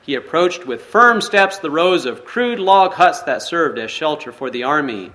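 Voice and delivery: measured read-aloud storytelling voice; story narration. A narrator's reading. Pastor reading a forgiveness story to the congregation, storytelling narration. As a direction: read the tale steadily to the listeners.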